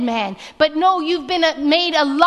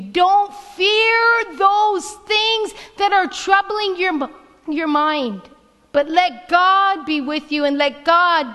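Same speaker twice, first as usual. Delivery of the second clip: preaching; 3 semitones higher than usual. Acted. Pastor urging the congregation to be strong, fervent preaching. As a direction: drive each verse home to the congregation. Preaches scripture at full force.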